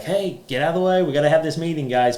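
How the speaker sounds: mock-shoo the kids out of the room; team shooing the kids. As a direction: coworkers telling the kids to get out of the way before a meeting. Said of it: "the team has to be like".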